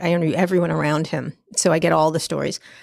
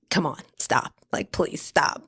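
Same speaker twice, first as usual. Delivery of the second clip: hushed scoff; 4 semitones lower, 5 dB quieter, slower than usual. Retold or imitated. Scoffing at the facelift denial.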